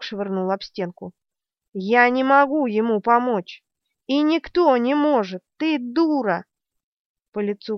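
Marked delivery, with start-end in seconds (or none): 1.7-6.5 furious, raised voice; angry shout. Acted. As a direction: shout at her in fury. Zedd shouts in rage.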